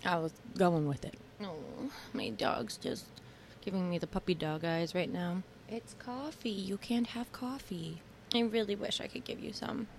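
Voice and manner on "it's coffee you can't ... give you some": soft, higher-pitched pet talk; talking to dog. Real, not acted. Owner to dog giving puppy dog eyes, soft pet talk. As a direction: gently let down a begging dog.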